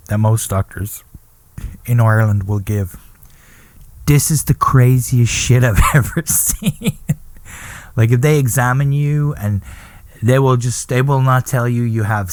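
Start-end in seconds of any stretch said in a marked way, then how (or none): 4.1-7.0 laughing through the words; amused mock diagnosis. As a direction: quote the doctors, breaking into laughter.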